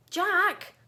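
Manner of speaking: loud high call into the dark; yelling a name in the dark. Acted. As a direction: call out for your friend. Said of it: "I yelled".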